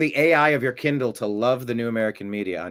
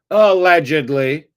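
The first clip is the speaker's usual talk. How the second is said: drawn-out, louder sly aside; 4 semitones higher, 8 dB louder, slower than usual. Acted. Host adding a legal hedge to chat comment, sly and drawn out. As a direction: say it with a knowing wink.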